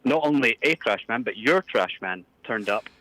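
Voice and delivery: lightly put-on Scottish priest; Scottish caller complaining; a hint of a Scottish brogue; Scottish accent. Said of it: "I can't tell with your accent".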